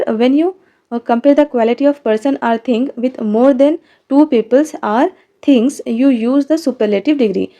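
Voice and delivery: reading each word slowly for the class; dictating the sentence slowly and clearly; slow textbook reading. Shown as a demonstration. Reads definition from book. (धीरे-धीरे पाठ पढ़कर सुनाना)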